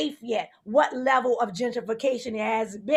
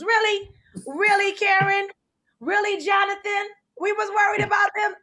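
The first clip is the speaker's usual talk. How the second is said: incredulous, higher and louder; mock outrage; 6 semitones higher, 3 dB louder than usual. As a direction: call them out in disbelief.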